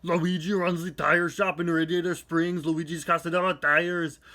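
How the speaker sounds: put-on Austrian action-hero accent; thick Austrian Arnold delivery; Arnold Schwarzenegger impression. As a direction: read it like Arnold playing Luigi. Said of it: "I'll instead do it in an Arnold Schwarzenegger impression".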